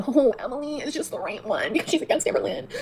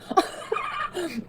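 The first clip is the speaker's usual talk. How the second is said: soft laugh; 5 semitones higher, 6 dB quieter than usual. Real, not acted. Laughing at an insult.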